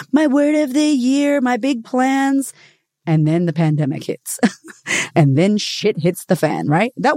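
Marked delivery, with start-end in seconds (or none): 0.1-2.5 high, slow, self-important mock voice; hammed-up lofty declaring; mock grand plans. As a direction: poke fun at your own big resolutions. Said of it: "when we do this, like".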